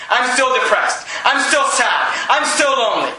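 rhythmic sermon build of repeated lines; preaching. Acted. Pastor preaching to the congregation, rising sermon cadence. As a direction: preach it, line after line.

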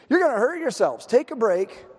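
high, teasing call to stop; taunting fake concern; mock concern. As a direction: call them off with mock pity. Elijah mockingly calling off the prophets.

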